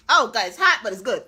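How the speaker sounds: talking with hot food in mouth; mouth full. Real, not acted. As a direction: talk around a hot bite. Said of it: "don't mind me scalding my mouth off".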